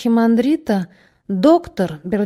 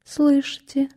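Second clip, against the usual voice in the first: blank echo; 5 semitones higher, slower than usual. Acted. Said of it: "повторил Ленточкин".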